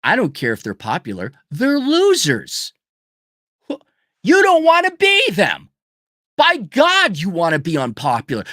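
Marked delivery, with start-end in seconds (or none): 1.5-7.2 furious rant, loud and high; angry shouting rant. Real, not acted. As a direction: shout it, much higher and louder. Ranting about Americans.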